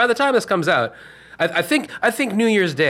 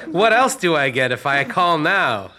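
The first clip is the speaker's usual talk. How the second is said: infomercial caller; 3 semitones higher, 3 dB louder than usual. Pretend. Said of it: "back from our sponsor".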